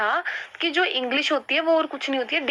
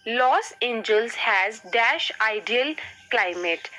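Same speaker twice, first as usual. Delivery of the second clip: slow dictation; much slower than usual. Shown as a demonstration. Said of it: "reading exercise sentence slowly".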